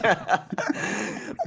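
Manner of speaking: high, unvoiced real laughter; breathy laugh. Real, not acted. Laughing at the story.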